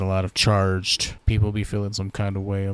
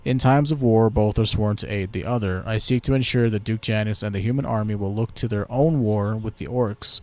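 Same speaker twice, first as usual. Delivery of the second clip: haughty elf, a touch louder; elf ambassador; 3 dB louder than usual. Pretend. Elven ambassador greets the new Lord Protector, haughty. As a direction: greet the human with lofty pride.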